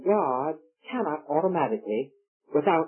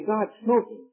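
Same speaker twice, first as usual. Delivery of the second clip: objector; 4 semitones higher than usual. Retold or imitated. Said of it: "You say".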